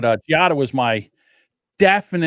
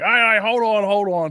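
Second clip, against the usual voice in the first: high, loud placating plea; imitated backpedalling; 8 semitones higher, 4 dB louder than usual. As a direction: mimic the cousin calling someone back. Cousin backpedals as teller walks away.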